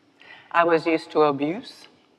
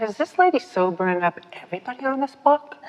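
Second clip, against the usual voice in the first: amused thought; 7 semitones higher, faster than usual. Retold or imitated. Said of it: "I really thought that".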